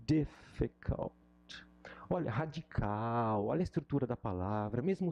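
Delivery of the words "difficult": difficult drawn out slowly to echo difícil; slow, stretched out. Shown as a demonstration. Teacher stretching difficult to match difícil. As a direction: stretch out difficult like the Portuguese word. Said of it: "Olha só como é parecido".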